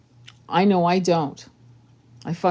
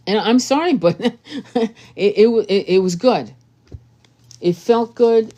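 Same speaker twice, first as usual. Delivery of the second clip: laughing delight; 3 semitones higher, 4 dB louder than usual. Real, not acted.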